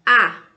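A belted out loud on its own; teacher isolating the vowel sound loudly; isolated first sound. Shown as a demonstration. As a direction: shout the opening A of abacaxi. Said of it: "olha o som de abacaxi".

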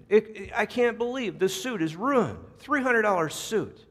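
high, loud, outraged ranting; retelling an enraged customer's tirade; mock angry screaming. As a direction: rant at the waitress like a furious customer. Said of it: "Started screaming and shouting".

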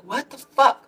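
high-pitched mock outrage; retold exasperated disbelief. Doing dishes as cupboards swing open, high exasperated disbelief.

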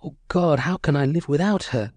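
high, grieving lament; mild mock weeping; anguished cry. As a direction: cry out in remembered grief.

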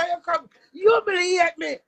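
slow, tearful yell; crying shout. Real, not acted. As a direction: shout it through sobs. Crying argument with auntie.

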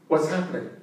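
curious giant wolf; a beast asking, wary. Acted. Wolf asks the gods.

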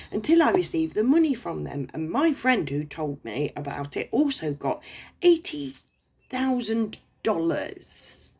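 mock scammer. Scammer voiced.

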